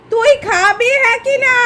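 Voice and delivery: slow insistent question. Real, not acted. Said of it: "আমি শুধু জানতে চাইছি".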